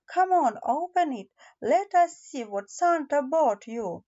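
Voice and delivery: lightly voiced cheerful dad; encouraging father. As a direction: urge the child on playfully. Father urges Bobo to open gift.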